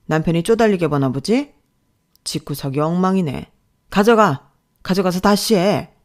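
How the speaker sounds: loud sneering rebuke; mock her family, then bark an order; contemptuous boss. Boss sneers at her family life, loud and contemptuous.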